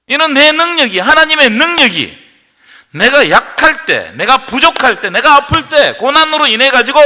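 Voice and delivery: 높고 크게 몰아가는 설교; 한 구절씩 힘있게 쌓아 올리며; preaching at full force. Acted. 고조되는 설교. (힘차게 외치는 설교)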